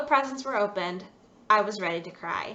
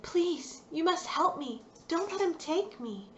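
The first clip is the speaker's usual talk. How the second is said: pleading doll; 7 semitones higher, 4 dB quieter than usual. Acted.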